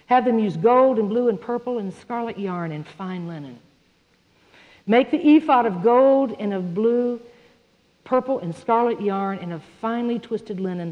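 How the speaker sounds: steady, measured reading of Scripture. Acted. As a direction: read the verses aloud to the congregation. Reading Exodus passage aloud.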